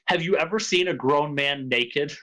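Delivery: understated deadpan question. Retold or imitated. Oldish man asking a little kid, completely deadpan. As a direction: deliver the outrageous line straight-faced. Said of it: "but it's completely deadpan".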